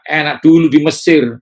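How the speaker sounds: loud, high wistful sigh; mock the nostalgic Israelites; imitating a wistful 'enak dulu ya'; longing for the past. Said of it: "Orang Israel bilang apa".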